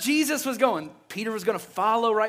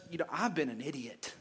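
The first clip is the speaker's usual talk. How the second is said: softer, lower, sheepish admission; humbled confession; 6 semitones lower, 10 dB quieter than usual. Retold or imitated. Peter, imagined, admits his folly to Jesus, quiet and sheepish. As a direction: mutter it ashamed.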